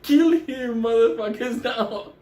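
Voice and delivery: rally the troops to attack; mock battle order. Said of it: "Jia Wei was like".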